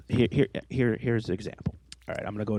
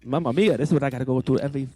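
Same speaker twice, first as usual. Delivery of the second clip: lightly hammed-up Italian exasperation; mock Italian exasperation; 3 semitones higher, 4 dB louder, faster than usual. Complaining about his co-host every week, mock Italian accent.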